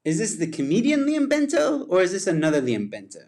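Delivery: hammed-up booming announcer shout; big announcer call. Shown as a demonstration. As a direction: call out the name like a ring announcer. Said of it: "Sometimes I gotta get into it".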